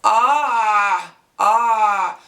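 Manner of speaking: Ah squeezed from a pressed throat; pharyngeal ain. Shown as a demonstration. Teacher models the throaty ain sound. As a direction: choke the Ah in the middle of the throat. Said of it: "press on the middle of your throat".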